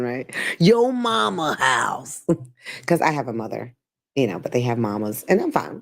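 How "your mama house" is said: "Your mama house" said slowly with "mama" stretched Southern style; Southern phrasing. Shown as a demonstration. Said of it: "this sounds so Southern".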